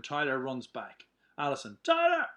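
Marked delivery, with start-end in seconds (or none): 1.8-2.3 high, loud shout after someone running off; yelling a name. Acted. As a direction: call him back, urgent. Alison yells as Tyler runs.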